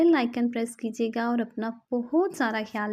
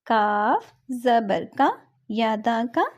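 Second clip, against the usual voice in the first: slow spelling drill; slower than usual. Shown as a demonstration. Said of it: "next ہم پڑھیں گے".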